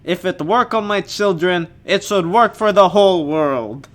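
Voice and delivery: clumsy fake Russian accent; a weak Putin impression; bad Russian accent. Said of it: "one of the worst Russian accents".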